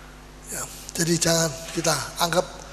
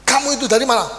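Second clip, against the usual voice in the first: a sharp, louder telling-off; mock angry demand; angry scolding; 3 semitones higher, 4 dB louder, faster than usual. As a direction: scold the child for coming home late. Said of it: "sudah bisa marah".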